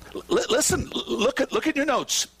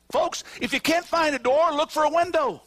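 rising preaching shout; 11 semitones higher than usual. Real, not acted. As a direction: preach it up until you're shouting. Preacher building to climax.

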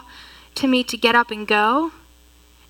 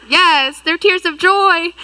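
higher, emphatic retelling of a happy reply; joyful retort; 5 semitones higher, 3 dB louder, slower than usual. Retold or imitated. Crying teacher answering the onlookers, joyful and emphatic. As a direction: insist through happy tears, pitched up. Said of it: "And I'm like".

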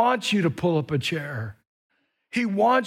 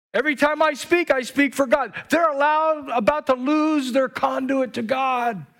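preaching shout; 7 semitones higher than usual. Real, not acted. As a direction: build up and shout it out. Preacher building to climax.

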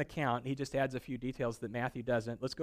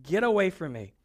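mock rebuke; 2 semitones higher, 4 dB louder than usual. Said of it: "he turns to Peter and he says".

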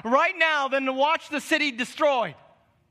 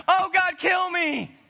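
hammed-up death wish; 4 semitones higher than usual. Preacher plays Jonah begging God, in a mock shout. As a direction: cry it out, overdone and laughing.

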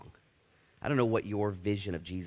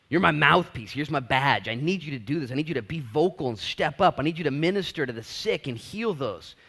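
voice of God; 6 semitones higher, 7 dB louder than usual. Retold or imitated. God commissioning the listeners.

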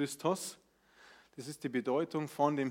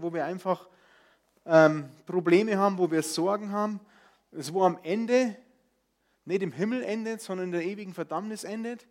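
building preaching; 3 semitones higher, 6 dB louder than usual. Real, not acted. Preaching rising to a climax.

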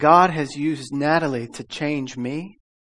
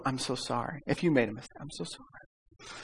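mock apology; 9 dB quieter than usual. To a driver passing in anger, soft mock sympathy. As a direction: fake pity, quieter and quieter. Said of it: "you go".

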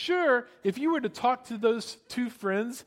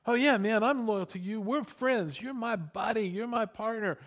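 quick-fire chummy assurances, slightly higher; glib buddy talk; 3 semitones higher than usual. Retold or imitated. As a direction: gush loyalty like an all-talk pal. Mimics glib professions of friendship.

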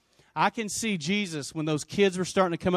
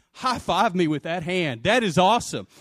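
mildly hyped congratulation; acted excitement; 4 dB louder than usual. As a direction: celebrate like a thrilled buddy. Imagined Jesus cheering a healing.

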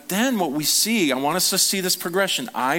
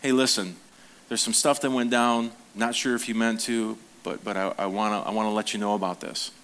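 gentle, honest talk; 5 semitones lower than usual. Shown as a demonstration. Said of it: "it's coming to them and saying".

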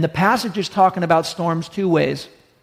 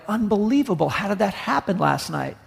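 higher-pitched, mildly stunned disbelief; mock shock; 3 semitones higher, 3 dB quieter than usual. Couple discovering a crack in their wall, mock shock. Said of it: "they are shocked".

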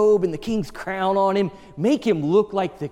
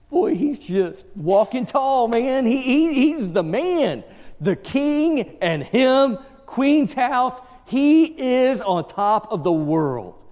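swaggering pride; 7 semitones higher, slower than usual. Retold or imitated. Preacher pictures proud Haman.

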